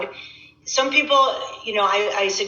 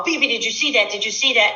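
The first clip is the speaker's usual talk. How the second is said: lightly imitating an excited child; quick, eager mock call for attention; excited grandchildren; 3 semitones higher, faster than usual. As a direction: act out a kid's proud excitement. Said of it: "And they're so excited".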